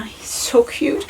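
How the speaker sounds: soft cooing whisper. Real, not acted. Holding baby to camera.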